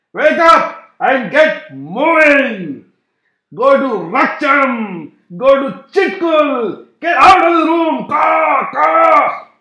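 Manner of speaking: very high, loud squawking crow voice; shrieking crow. Acted. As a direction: screech like a furious crow. Crow ordering them out.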